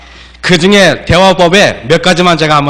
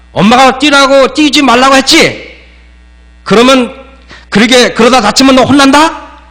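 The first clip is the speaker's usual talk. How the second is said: higher-pitched mock scolding mother; mom scolding; 6 semitones higher than usual. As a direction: imitate a nagging mom telling her kid off. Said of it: "이렇게 말해요".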